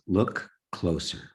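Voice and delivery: slow, deliberate command; weighty words, each one drawn out slowly. Retold or imitated. The voice commands him at the river, slow and authoritative. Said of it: "this very loud voice".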